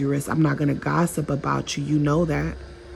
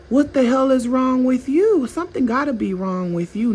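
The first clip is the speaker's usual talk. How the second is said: offended narcissist; 4 semitones higher than usual. Retold or imitated. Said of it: "they're looking at you like".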